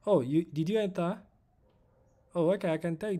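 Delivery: real flustered haste; flustered excitement. Real, not acted. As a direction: rush it out in a fluster. Viewer says they entered.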